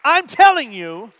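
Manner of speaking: forceful pulpit insistence; emphatic insistence. Real, not acted. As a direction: drive it home to the congregation. Preacher insists after not being heard.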